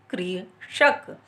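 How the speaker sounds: कृषक drawn out very slowly, kri-shak; कृषक with a long री sound. Shown as a demonstration. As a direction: stretch each sound of कृषक. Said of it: "उसको हम बोलते हैं क्री".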